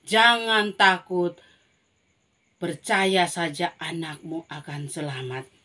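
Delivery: slow, steady comfort; calm them slowly; reassuring Jesus. Acted. Jesus reassures Jairus in a slow voice. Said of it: "Makanya Tuhan bilang".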